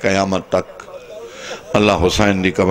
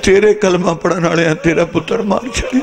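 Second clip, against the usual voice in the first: rising into a high, grieving cry; anguished lament; 9 semitones higher than usual. Acted. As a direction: break the terrible news in a high lament. Birds bring news of the killing. (ਦਰਦ ਨਾਲ ਉੱਚੀ ਹੁੰਦੀ ਫ਼ਰਿਆਦ)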